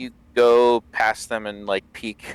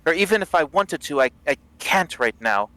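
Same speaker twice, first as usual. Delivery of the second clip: prisoner voice; 7 semitones higher than usual. Acted. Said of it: "he says".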